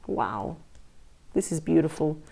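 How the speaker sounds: soft, awed gasp of wonder; hushed awe. Real, not acted. Reader awed by the cards for Pisces, in a hushed, amazed voice. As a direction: breathe it out, moved by the cards.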